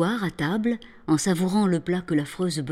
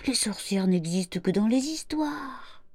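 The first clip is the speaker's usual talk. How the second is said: put-on calm the scared child; reassuring mother. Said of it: "elle lui dit". (maman rassure son fils au coucher, tendrement)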